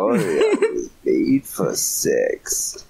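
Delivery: slow, mocking echo of the line; mocking repeat. Shown as a demonstration. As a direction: drag it out to mock the friend. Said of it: "I stop".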